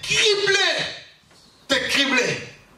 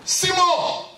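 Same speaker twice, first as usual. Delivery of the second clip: higher calling voice, name stretched; 4 semitones higher, much slower than usual. Acted. Jesus calling Simon by name, raised calling voice. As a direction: call him like from afar.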